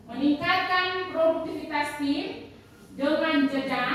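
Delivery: slow, with a pause before tim; pause for emphasis. Shown as a demonstration. Teacher demos pausing before produktivitas tim. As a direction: hold a short beat before the key point. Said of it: "Dia punya pemodelannya".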